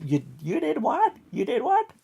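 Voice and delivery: high, far-off voice of an outraged wife; shocked wife. Retold or imitated. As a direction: squeal it like a stunned wife. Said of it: "She's probably sitting beside you and going".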